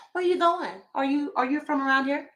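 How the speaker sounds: high, nosy questioning voice; suspicious neighbor demanding where she's going. Retold or imitated. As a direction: play the wary neighbor eyeing a stranger.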